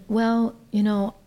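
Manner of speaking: high, laughing disbelief; baffled protest. Retold or imitated. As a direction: brush it off with an awkward laugh. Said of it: "And I said".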